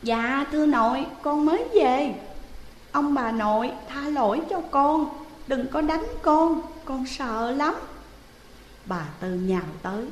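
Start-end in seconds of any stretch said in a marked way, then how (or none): 0.0-7.8 put-on frightened boy's voice, higher and louder, pleading; a scared child begging not to be beaten; timid grandson. Grandson pleading with his grandparents, higher and frightened. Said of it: "lý nhí đáp".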